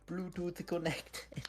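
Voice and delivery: put-on high, very slow Chinese-accented announcement. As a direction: say it like a cheap earbud voice prompt. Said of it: "someone with a strong Chinese accent will".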